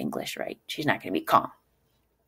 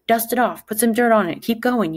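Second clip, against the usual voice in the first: tough parent; 5 semitones higher, 4 dB louder than usual. Retold or imitated. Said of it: "be like".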